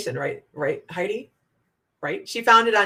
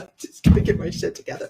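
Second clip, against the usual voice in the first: laughing; 8 semitones higher, faster than usual. Real, not acted. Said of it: "I just can't even, hold on".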